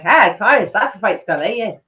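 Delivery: badly faked Irish Traveller accent; Pikey from Snatch. Streamer mocking own attempt at the film's Traveller accent. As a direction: mumble a rough imitation Traveller accent. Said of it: "talk like that Pikey from Snatch".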